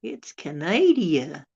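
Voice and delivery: slow, drawn-out "It's Canada."; slow punchline. Acted. Joke teller delivering the punchline to viewers, slow and drawn out. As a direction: let the punchline land slowly.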